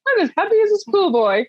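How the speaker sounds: high and quick, bubbling with glee; laughing, lifted Caine impression; giddy Michael Caine. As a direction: gush it out like a delighted schoolboy. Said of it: "seeing him all like".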